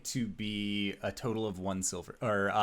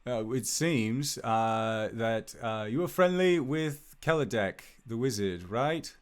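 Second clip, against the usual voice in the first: lightly voiced guardsman checking a fact; a hint of a hesitant town official; 3 semitones higher, 3 dB louder than usual. Guard confirming Albus knows the wizard, light guardsman voice. Game master plays the guard.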